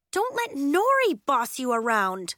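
urgent appeal; crying out. A narrator's reading. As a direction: cry it out in protest. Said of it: "Willa cried".

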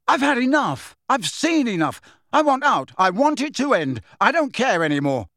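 high, loud furious shouts, easing at the end; yelling. A narrator's reading. Boy smashing the office, shouting in fury. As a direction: rage pouring out line by line. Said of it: "Harry yelled at them".

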